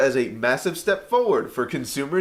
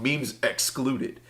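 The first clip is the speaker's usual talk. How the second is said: slow deadpan; 7 dB quieter, much slower than usual. Acted. Reading headline slowly for effect.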